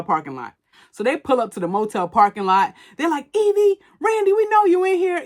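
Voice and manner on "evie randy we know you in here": high, loud holler for people in hiding; imitated shout, pitched way up; calling out. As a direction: act out searchers calling across a parking lot. Searchers call out at motel.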